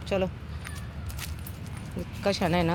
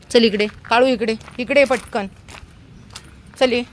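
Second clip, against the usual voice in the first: loud, high call; calling the dog; 5 semitones higher, 3 dB louder than usual. Real, not acted. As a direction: hurry the dog over.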